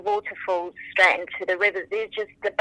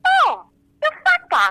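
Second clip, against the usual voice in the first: much higher, louder, slow gushing fan; starstruck fan; 5 dB louder, slower than usual. Retold or imitated. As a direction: gush like a stunned fan at the pump. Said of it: "this woman goes".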